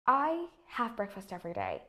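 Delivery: statement stepping down to "every day"; plain statement tune, falling at the end on "day"; falling intonation. Shown as a demonstration. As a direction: let the pitch drop towards "day". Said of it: "my tone of voice falls".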